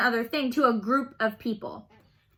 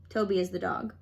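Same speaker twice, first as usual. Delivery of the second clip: soft, unvoiced aside; whispered aside; 5 semitones lower, 6 dB quieter than usual. Real, not acted. Aside about the dog.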